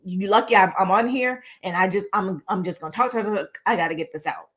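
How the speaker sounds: imitating a rushed, nonstop talker; rushed rambling. Speaker mimicking people who just keep talking, hurried. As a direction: pile the words on without a break.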